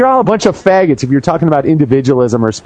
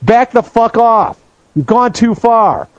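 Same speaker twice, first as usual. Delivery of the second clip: slow, raised-pitch confrontational order; higher, deliberate warning without full volume; mock yelling; 6 semitones higher, slower than usual. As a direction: imitate yelling someone down, spacing the words out. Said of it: "yelling at the other fuckers and saying".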